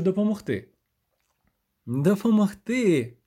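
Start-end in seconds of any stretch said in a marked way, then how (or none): 1.9-3.2 slow, higher, incredulous echo; scornful snort. A narrator's reading. Sorceress throws his offer of help back, snorting. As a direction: stretch ДОПОМОГТИ into a scoffing question. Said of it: "пирхнула вона".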